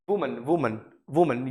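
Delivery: "वुमन" repeated as wu-man, falling; singular pronunciation. Shown as a demonstration. Teacher drilling the singular for learners, careful model pronunciation. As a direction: model "वुमन" word by word, with pauses. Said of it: "ये singular है".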